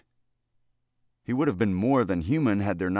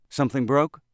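anxious, raised question; anxious voice asking what broke; 6 semitones higher, 6 dB louder than usual. Acted. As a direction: ask it with a nervous edge, pitched up. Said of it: "asked an anxious voice".

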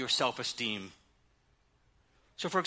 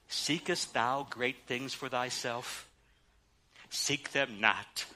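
slow, hushed scripture reading; reverent, measured Bible quote; King James recitation; 4 semitones lower, 6 dB quieter, slower than usual. Shown as a demonstration. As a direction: intone the old King James words solemnly and unhurried. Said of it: "this verse seems to work best in the old King James English".

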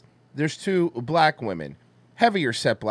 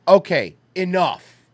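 scolding mom; 4 semitones higher, 5 dB louder, slower than usual. Retold or imitated. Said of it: "she did the whole finger".

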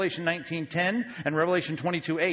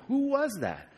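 baffled; 9 semitones higher than usual. Retold or imitated. Us baffled by the angel.

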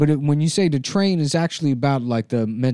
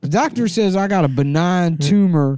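put-on Taiwanese accent. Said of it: "where did you pick this accent up".

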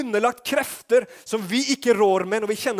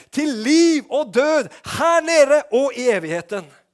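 loud, high-pitched preaching as Jesus' call; fervent shouted sermon call; 6 semitones higher, 6 dB louder than usual. Acted. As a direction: proclaim it at full force to the crowd. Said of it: "Nå roper jeg mye her".

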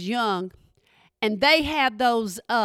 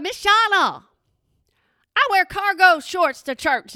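higher-pitched mock complaint; mimicked protesting student; 5 semitones higher than usual. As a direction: imitate a student objecting to the teacher. Mimics students objecting to dress advice.

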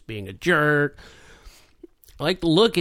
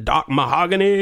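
lightly put-on, slightly higher voice; 5 semitones higher, 4 dB louder than usual. Quoting Jack's line to co-hosts, put-on voice. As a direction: imitate the character's silly voice. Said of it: "a voice".

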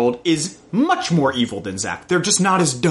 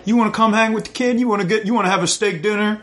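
sleazy come-on; 5 semitones higher, faster than usual. Retold or imitated. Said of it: "being like".

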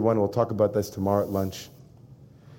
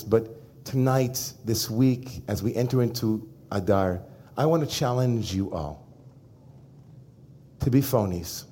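hushed challenge; 2 semitones lower, 6 dB quieter than usual. Real, not acted. Solemn challenge to congregation.

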